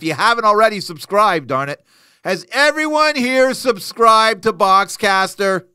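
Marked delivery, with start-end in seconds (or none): 2.2-5.7 slow, louder appeal to viewers; host rallying viewers, louder and slower; calling out. Real, not acted. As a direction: call out to the audience, drawn out.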